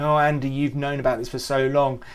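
a hint of an irritated father; mock exasperated scolding. The Father imagined scolding Andy, fed up.

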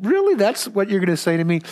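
high, startled pitch jump on really; mock incredulous squeak at the pastor's answer; hammed-up disbelief, voice leaping up; disbelieving. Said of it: "I was just thinking".

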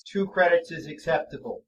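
level flat monotone; deadpan robot acceptance. Acted. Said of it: "same flat monotone voice".

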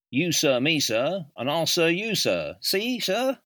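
loud, high sergeant major address; drill sergeant. Retold or imitated. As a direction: boom it at new cadets like a sergeant major. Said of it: "his traditional joke when briefing new cadets".

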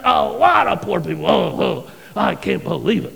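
huffing, outraged grumbling with loud bursts; snorting indignation. Retold or imitated. Disciples fuming over the wasted perfume, indignant snorting outrage. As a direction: snort and fume like an offended horse. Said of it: "It denotes a snorting horses".

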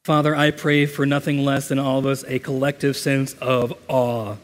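measured, earnest prayer with long pauses; reverent, even-toned prayer; congregational prayer. Real, not acted. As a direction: lead the congregation in prayer, settling down at the amen. Leads a prayer before communion.

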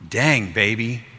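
slow, drawn-out swooning wife voice; imagined admiring wife. Pretend. Husband imagining his wife praising him, hammed-up adoring voice. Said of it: "say it in that voice".

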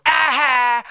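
loud high triumphant aha; gotcha shout. Retold or imitated. Wife catching husband slipping, loud triumphant aha. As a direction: pounce on him. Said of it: "so she could go".

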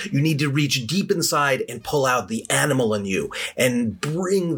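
a masked knight rallying his troops with mild fervour; lightly voiced war leader stirring up the villagers; rousing knight. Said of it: "And he says".

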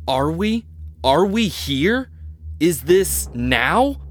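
high, slow, rattled questions; frantic disbelief. Acted. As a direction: voice climbing in panic. Anderson panicking about reality.

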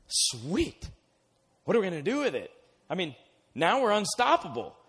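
high, pleased boast; gloating delight. Retold or imitated. Philistines gloating over the captured ark, high and pleased. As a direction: crow over the captured prize.

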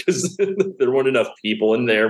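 real chuckles breaking into the sentence; laughing recollection. Real, not acted. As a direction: tell it while cracking up. Laughing at his chaotic gig story.

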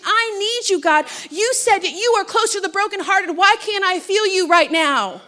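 desperate prayer, acted out; acted desperation. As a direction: plead with God for an answer. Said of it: "it's out of desperation".

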